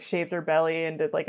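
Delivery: usual speaking voice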